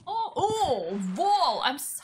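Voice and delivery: loud sudden alarm then apology; startled yelp. Real, not acted. Rider crashing her horse into a wall, startled and loud. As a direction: blurt it as you hit the wall.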